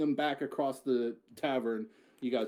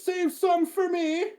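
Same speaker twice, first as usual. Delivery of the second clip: much higher, slow, eager call; eager warrior woman; 6 dB louder, slower than usual. Acted. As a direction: charge in, calling to your ally. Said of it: "she says".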